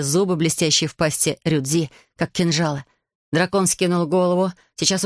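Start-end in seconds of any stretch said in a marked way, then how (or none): none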